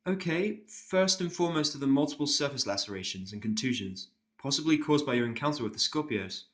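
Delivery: a careful, apologetic pony nurse. Acted.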